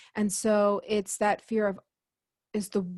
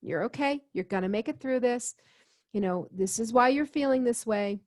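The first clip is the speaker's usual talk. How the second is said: put-on soothing a child. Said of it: "talk to myself as if I'm five".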